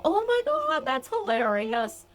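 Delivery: very high, slow, delighted exclamation; laughing at yourself for pouting, very high; mock amused realization. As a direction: squeal it at yourself, then drag out pouting. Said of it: "laugh at yourself and go".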